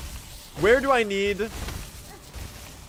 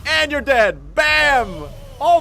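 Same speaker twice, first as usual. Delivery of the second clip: high, loud triumphant shout; victory yell; 9 semitones higher, 11 dB louder, slower than usual. Real, not acted. Streamer finishing the boss, loud triumphant yell. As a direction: celebrate the kill.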